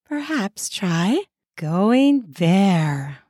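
slow, deliberate promo read; sponsor ad read. Acted. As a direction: sell the product slowly, leaning on each word.

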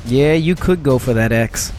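put-on slow cowboy drawl in a Western accent, leaning on "could"; terrible Western accent. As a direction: drag out "Yeah, you could go for that X" like a hammed-up Western gunslinger. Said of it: "holstering my terrible accent".

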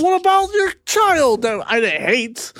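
mock pleading. Voicing the shaking man.

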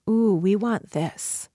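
slow, calm and knowing; calm inner wisdom voice. Retold or imitated. Inner wisdom voice telling your body it wants this, slow and calm. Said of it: "The voice that is slower, that is more calm".

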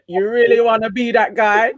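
put-on light Jamaican accent on a quoted jibe. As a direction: tease him in a mild Jamaican accent. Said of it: "quite a good Jamaican accent I did there".

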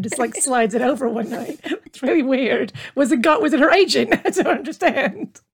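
laughing while talking; amused laughing. Real, not acted. Amused by the odd story.

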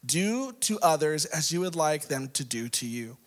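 measured, emphatic Bible reading; scripture reading. Acted. Preacher reading Luke six to congregation, emphatic delivery. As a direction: read it out with rising emphasis and pauses.

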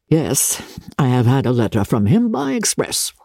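low, hushed, half-whispered reply; a tired father murmuring; weary father. Acted. Father answering quietly.

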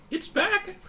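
high-pitched squeal of delight; gasp, then squeak it out with joy; excited gasp. Acted. Player greets the bird's return.

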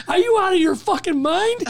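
high, loud retold disbelief; acted-out exasperated amazement; incredulous outburst. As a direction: imitate an astonished boss, pitch shooting up. Captain's retold astonished reaction to prank.

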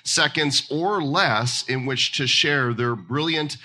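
lifted-pitch announcer opening, slowing on the final call; game-show host. Acted. Host introduces the crypto pitch contest, announcer voice.

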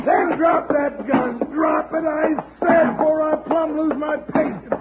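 shouted order. Acted. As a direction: bark the order to drop it. Gunfight standoff, ordering drop weapon.

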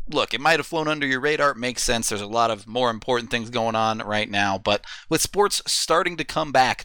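upbeat sponsor ad read. Acted. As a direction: sell it like a radio spot. Reads sponsor ad.

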